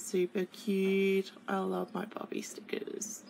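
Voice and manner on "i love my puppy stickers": gushing whisper. Real, not acted. Gushing over puppy stickers.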